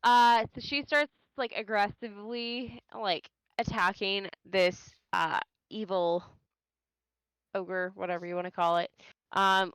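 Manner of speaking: too close to the mic, boomy; right on the mic. Real, not acted. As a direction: mouth pressed right on the microphone. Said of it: "now it sounds like you're, like, right on the microphone".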